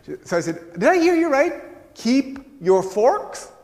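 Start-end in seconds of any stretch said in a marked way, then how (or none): 0.7-1.9 high-pitched, loud incredulous question; hammed-up astonishment at what was heard; loud disbelief. Repeats his baffled question to Hilda. 1.9-3.5 high, loud, drawn-out rising question; baffled question. Retold or imitated. Repeats her words as baffled question.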